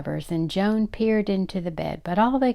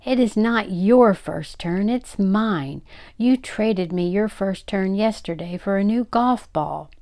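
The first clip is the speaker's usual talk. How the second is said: put-on indignant, childish quarrelling yell; 3 semitones higher, 4 dB louder than usual. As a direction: protest loudly that you've been wronged.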